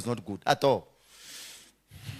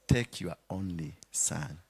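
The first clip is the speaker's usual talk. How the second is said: sarcastic God; 10 semitones lower, 7 dB quieter than usual. Acted. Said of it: "That's sarcasm".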